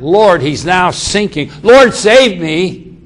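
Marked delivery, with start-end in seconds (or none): 0.0-0.4 loud call of Lord; crying out. Retold or imitated. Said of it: "when he cried out". 1.6-3.0 loud, slow plea for help; cried out. Retold or imitated. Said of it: "when he cried out".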